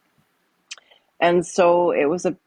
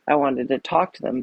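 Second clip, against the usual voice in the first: ordinary delivery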